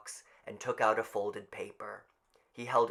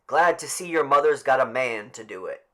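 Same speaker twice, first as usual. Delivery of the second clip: crowd voice; 3 semitones higher, 11 dB louder than usual. Acted.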